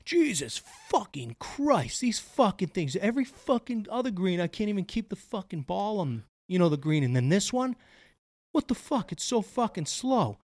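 mock golfer rant. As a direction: lightly ham up a golfer griping out loud. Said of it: "yells out loud so I can hear".

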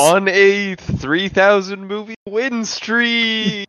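announcer voice. Pretend. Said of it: "Coming in at".

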